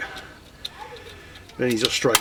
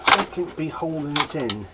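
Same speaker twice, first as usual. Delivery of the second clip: light pirate growl; 4 semitones higher than usual. Pretend. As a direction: say it like an old sea pirate. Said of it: "I'm talking like a pirate".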